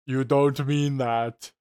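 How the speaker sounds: slow, lifeless imitation of bad acting; mock a wooden line read, no emotion; wooden delivery. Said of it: "Her line delivery is so wooden".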